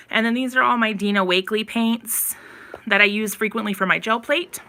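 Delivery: out of breath. Real, not acted. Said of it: "I'm, like, out of breath".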